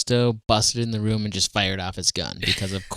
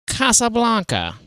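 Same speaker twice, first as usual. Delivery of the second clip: much higher, sweeping movie title; grand title announcement; 12 semitones higher than usual. Pretend. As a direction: announce it like a film trailer.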